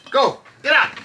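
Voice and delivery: real impatient call to dogs; ordering dogs out. Real, not acted. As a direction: shoo the dogs out firmly.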